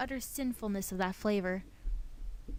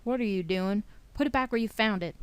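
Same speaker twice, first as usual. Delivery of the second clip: angry; 4 dB louder than usual. Acted. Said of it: "clicks his tongue angrily at me".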